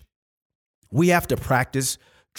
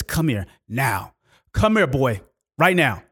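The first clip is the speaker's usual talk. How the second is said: stern dad. Retold or imitated. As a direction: order the boy over like an angry dad. Stern dad calling his child over.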